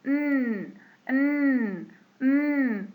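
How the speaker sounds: long hummed "ن"; letter N sound. Shown as a demonstration. Teacher showing how N is pronounced, long held "ن". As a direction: hold "ن" as a sustained nasal consonant. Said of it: "حرف ال N بيتنطق".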